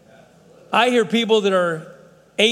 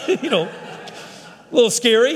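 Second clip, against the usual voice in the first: laughing; 3 semitones higher, slower than usual. Real, not acted. Teasing back about wife's plans.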